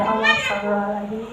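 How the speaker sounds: quick, soft murmur to oneself; calm yourself with a hushed prayer; soft istighfar. Shown as a demonstration. Mother calming herself as the child interrupts her cooking, softly murmured.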